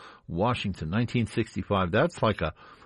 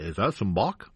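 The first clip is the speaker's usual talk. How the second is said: radio voice. Retold or imitated. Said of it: "that's not how he sounded. I'm just doing a radio voice".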